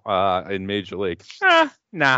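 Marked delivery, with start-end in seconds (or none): 1.4-2.2 burped out; words pushed out on a burp. Real, not acted. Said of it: "didn't mean to burp into the mic".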